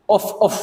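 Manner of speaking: two short soft puffs of breath, "Uf, uf"; soft blowing puffs. Shown as a demonstration. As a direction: blow out gently twice, "Uf, uf", like clearing dust. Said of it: "gitu ya". (tiupan pelan dua kali "Uf, uf")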